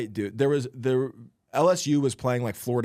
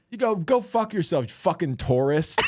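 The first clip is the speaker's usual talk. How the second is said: higher mock yell at the stranger; retold rage; 4 semitones higher than usual. Josh raging at the stranger in the courtyard, mock yell. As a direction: throw the insult out in fury. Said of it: "in the fit of his rage".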